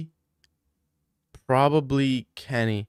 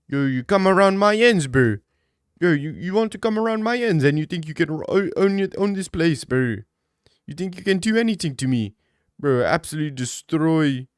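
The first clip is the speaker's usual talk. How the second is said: put-on loud high London roadman accent; hammed-up roadman threat in London slang; 5 semitones higher, 5 dB louder than usual. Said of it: "what's a roadman sound like?".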